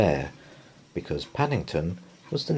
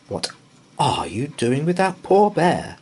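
cried; 8 semitones higher, 5 dB louder than usual. A narrator's reading. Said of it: "cried Missus Brown".

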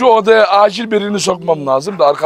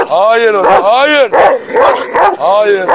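loud no, climbing higher on the repeat; firm command; 4 semitones higher, 4 dB louder, much slower than usual. Real, not acted. Owner telling animal not to attack, firm command. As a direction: stop the animal firmly.

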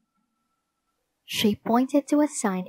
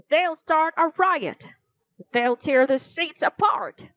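shouting in alarm; 6 semitones higher than usual. A narrator's reading. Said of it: "the man shouted".

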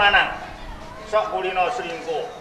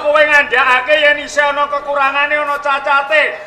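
raised, high-pitched questioning; indignant challenge; 5 semitones higher, 5 dB louder than usual. Acted. Regent questioning the subject who found a flaw, indignantly. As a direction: demand an explanation in a loud, higher voice.

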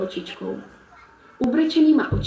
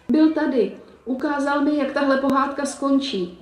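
crying wolf; 5 semitones higher than usual. Acted. Frightened wolf tells Eliška what happened, crying. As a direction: blurt it out between sobs. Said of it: "brečel vlk".

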